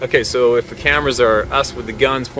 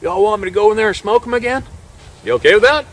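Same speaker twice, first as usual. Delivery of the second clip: eager hunter; 9 semitones higher, 4 dB louder, faster than usual. Retold or imitated. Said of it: "goes like this".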